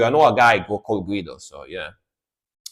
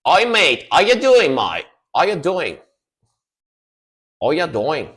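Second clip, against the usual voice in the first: mock friendly greeting; 6 semitones higher, 5 dB louder than usual. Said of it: "and just say".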